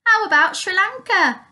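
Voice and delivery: bubbly, amused exclamation without a laugh. A narrator's reading. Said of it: "laughed Grandpa".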